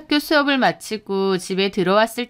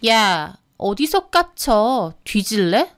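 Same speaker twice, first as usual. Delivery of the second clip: menacing, thuggish challenge; intimidating and drawn out; gangster-like threat; slower than usual. Acted. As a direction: threaten like a street thug. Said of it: "깡패처럼 위협하는데".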